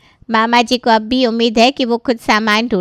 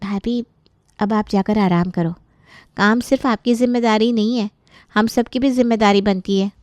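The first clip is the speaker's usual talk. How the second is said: softer, caring voice; gentle reassurance; 3 semitones lower, 4 dB quieter than usual. Acted. Sister-in-law tells tired Anita to rest, gently reassuring. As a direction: ease her burden quietly.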